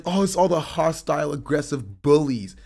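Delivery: high, loud mock whine of his words; mocking whiny voice. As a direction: sneer it like a petulant baby. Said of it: "He's like".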